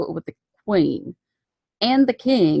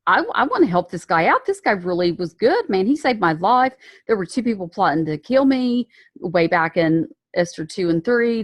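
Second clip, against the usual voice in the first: excited king. Retold or imitated. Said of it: "the king is all excited and he's like".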